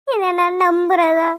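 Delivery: slow, tearful speech; crying. Acted. Heartbroken girl tells her friend, crying. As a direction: speak slowly through tears.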